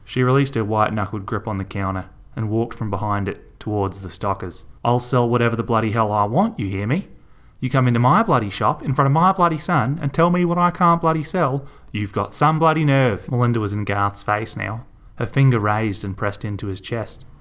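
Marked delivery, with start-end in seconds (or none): 4.8-13.3 angry tirade. Acted. Melinda rages at Garth in shop.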